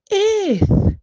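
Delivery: high loud eager shout; eager answer. A narrator's reading. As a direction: blurt it out like a keen pupil. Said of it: "Daddy Pig yeses".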